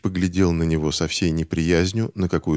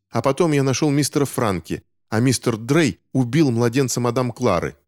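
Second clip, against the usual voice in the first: put-on higher, urgent child's voice pressing accusations; boy Finch accusing; 5 semitones higher than usual. Boy Finch accusing the doctor, higher and urgent. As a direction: lift the voice into a boy confronting a grown-up.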